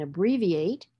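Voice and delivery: ABBREVIATE with a long "ee" in BRE. Shown as a demonstration. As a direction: stretch the E in abbreviate as "ee". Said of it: "with its long sound in abbreviate".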